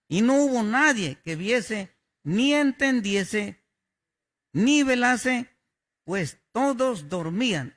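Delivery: reading the verse out loud and strong, rising emphasis; booming Bible reading with a push on ni; proclaimed scripture. Shown as a demonstration. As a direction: declare each clause like a preacher. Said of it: "Quise yo poner el texto".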